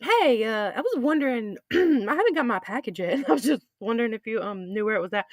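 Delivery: hesitant customer. Acted. Acts customer timidly asking after package.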